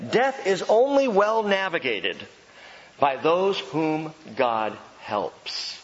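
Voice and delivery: only stressed, then slow "by those whom God helps"; slow weighted repetition; emphatic repeat. Shown as a demonstration. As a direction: drive the point home slowly. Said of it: "Let me say that again".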